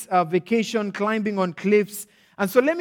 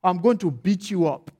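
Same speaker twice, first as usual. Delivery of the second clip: emphatic, raised acted scolding; mock fury. Nigerian father orders son up tree, mock fury. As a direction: scold with hammed-up authority. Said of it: "opens up his, uh, fury".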